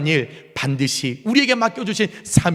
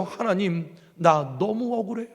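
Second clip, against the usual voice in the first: softer, aggrieved lament to God; plaintive appeal; 2 semitones higher, 4 dB quieter than usual. Acted. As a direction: pour out the hurt quietly. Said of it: "하소연합니다".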